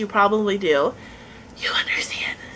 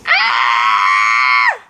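surprised shout; 14 semitones lower, 5 dB louder than usual. Real, not acted. Reacts to crazy face.

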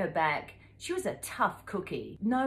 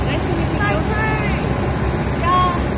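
much louder, high, cheerful hello; loud greeting; 10 semitones higher, 15 dB louder, slower than usual. Real, not acted. Vlogger greeting her new friends on camera, loud and high. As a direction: call out bright and loud to the camera.

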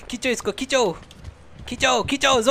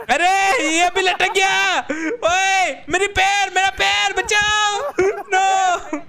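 high, loud shouts for help; panicked yelling; 8 semitones higher, 3 dB louder, much slower than usual. Real, not acted. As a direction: yell for help as you dangle. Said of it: "मेरा गला सूख गया चिल्ला चिल्ला के".

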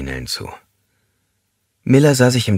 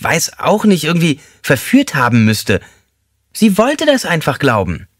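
high, thin, squeaky man's voice; squeaky-voiced inmate joking with the group; 10 semitones higher, 3 dB louder than usual. A narrator's reading. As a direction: pipe it up high like a small squeaky man. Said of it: "mit seiner piepsigen Stimme".

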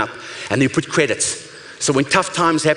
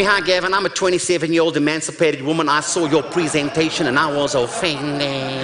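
put-on American accent. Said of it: "that American accent".

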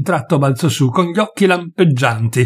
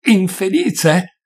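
higher-pitched, drawn-out scornful echo; contemptuous sneer; 6 semitones higher, much slower than usual. A narrator's reading. Doctor mocking the host's claim of misery, sneering. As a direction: throw it back slowly with contempt. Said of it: "sogghignò sprezzantemente il dottore".

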